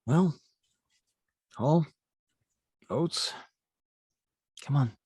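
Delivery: lightly voiced father, pitch lifting on each word; a hint of a dad coaxing animals along; father urging llamas. Father calls llamas through the portal, coaxing. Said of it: "You see your father standing".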